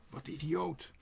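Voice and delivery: high, loud indignant crow; calling out. A narrator's reading. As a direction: cry out in disbelief. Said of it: "riep Quark".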